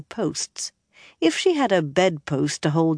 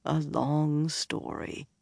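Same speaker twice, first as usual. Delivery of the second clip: pained sigh; 7 dB quieter, slower than usual. A narrator's reading. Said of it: "he sighed painfully".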